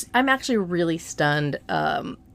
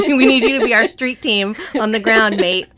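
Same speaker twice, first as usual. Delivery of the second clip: attempted Australian accent, louder; 3 semitones higher, 7 dB louder than usual. Podcast host recruiting Cameron as street team, attempted Australian accent. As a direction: have a clumsy go at an Australian accent. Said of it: "my Australian accent".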